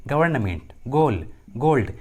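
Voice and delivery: गवर्नमेंट, गोल, गोल्ड each begun with hard G. Shown as a demonstration. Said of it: "जी का उच्चारण ग होता है". (गोल, गोल्ड में G को "ग" बोलते हुए)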